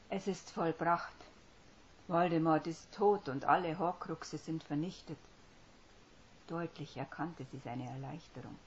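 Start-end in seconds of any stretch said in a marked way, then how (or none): 0.1-5.2 firmer voice. Acted. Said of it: "mit festerer Stimme".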